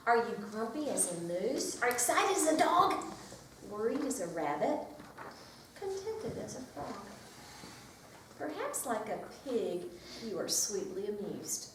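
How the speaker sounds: lively picture-book read-aloud; reading to children. Acted. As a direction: read it to a circle of preschoolers.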